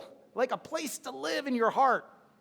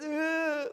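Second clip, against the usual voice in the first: imitated whimper; 6 semitones higher than usual. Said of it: "It starts with".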